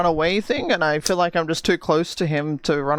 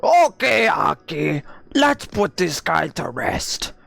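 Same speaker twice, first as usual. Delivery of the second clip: slow hyped-up pack leader; wolf voice; 2 semitones higher, slower than usual. Retold or imitated. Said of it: "That's exactly how it went".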